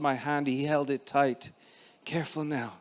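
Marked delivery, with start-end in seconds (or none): 2.0-2.7 soft, hushed warning; whispered. Acted. Father warning son in the crowd, whispered softly. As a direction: murmur it close to his ear. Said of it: "he whispered".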